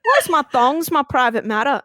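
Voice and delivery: mildly loud, incredulous question. Retold or imitated. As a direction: protest so the room can overhear. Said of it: "I, like, speak louder so everyone starts to hear me".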